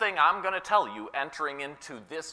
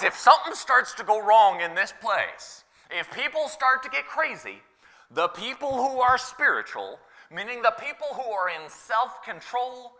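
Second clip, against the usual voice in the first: earnest retold appeal; 5 semitones higher than usual. Paraphrasing the apostle's appeal.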